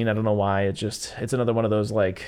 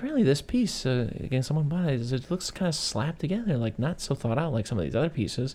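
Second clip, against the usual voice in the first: Jennifer Aniston's character, lightly mocked; 4 semitones higher, 4 dB quieter than usual. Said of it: "she's like".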